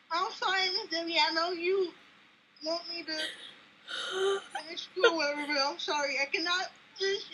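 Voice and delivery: a choked, emotional sorry to Miss Debbie; teary apology. Real, not acted. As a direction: voice catching, apologising through tears. Tearful apology to her idol.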